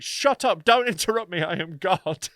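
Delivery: hammed-up shouting at him; imitating a woman shouting at the comedian; mock shouting. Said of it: "she just kept shouting".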